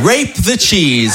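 put-on French-accented repeat. Repeats girlfriend's accented phrase.

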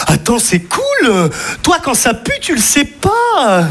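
a pal selling the bright side, slow and chirpy; upbeat optimist friend. Retold or imitated. Friend spinning the positive.

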